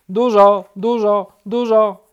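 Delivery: high, loud repeated bursts; high bird voice stuck on repeat; unstoppable woodpecker. A narrator's reading. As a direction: peck out each word loudly. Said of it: "któremu trudno było przerwać".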